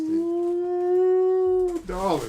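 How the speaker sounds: high drawn-out coo, dropping on the second word; mock swoon. Man swoons over his unboxed gift, mock swoon. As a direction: coo in playful delight at a treasure.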